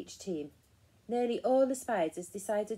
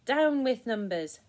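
loud, slow protest chant; storybook yell; 4 semitones higher, 8 dB louder than usual. A narrator's reading. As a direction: yell it out slowly like a crowd. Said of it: "they yelled".

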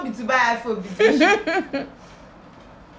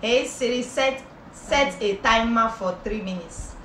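Oyibo accent. Shown as a demonstration. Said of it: "Use Oyibo voice".

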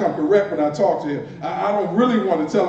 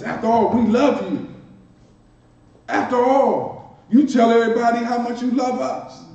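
mock indignation; 2 semitones higher than usual. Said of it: "they felt some kind of way".

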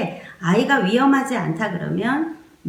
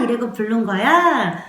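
ordinary delivery

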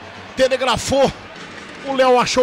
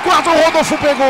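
excited; 3 semitones higher, 5 dB louder than usual. Real, not acted. Keeper almost saves penalty.

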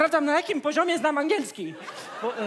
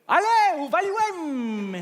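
louder mock French; 3 semitones higher, 4 dB louder than usual. Repeats fake French phrase louder.

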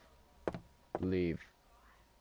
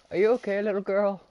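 mock sweet voice; 10 semitones higher, 3 dB louder than usual. Mock-sweet question to creepy girl.

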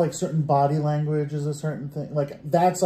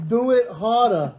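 high, slow, breathy-free hammed-up moan line; mock seductive; 6 semitones higher than usual. Repeats the mock sex line.

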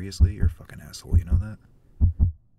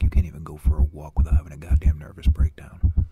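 sneering whisper; 5 semitones lower than usual. Acted. Inner voice taunting him.

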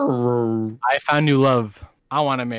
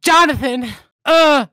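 high-pitched woman voice; 7 semitones higher, 5 dB louder, slower than usual. Pretend. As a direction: play a distressed woman calling out. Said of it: "I need to work on my woman voice".

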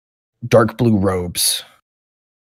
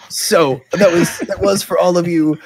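mock sheepish NPC; 10 semitones higher, 4 dB louder than usual. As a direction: stretch it out in a high put-on voice. NPC explaining the keg.

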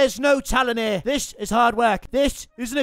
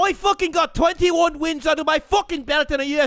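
worked-up Irish fighter's rant; angry boasting; 2 semitones higher than usual. Acted. Bragging about wins to hecklers, angry Irish rant. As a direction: boast angrily in an Irish accent. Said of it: "this boy gets angry".

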